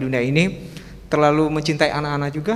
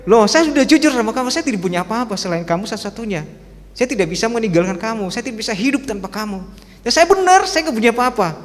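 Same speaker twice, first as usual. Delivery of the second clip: insisting husband; 6 semitones higher than usual. Retold or imitated. Husband insisting to his wife.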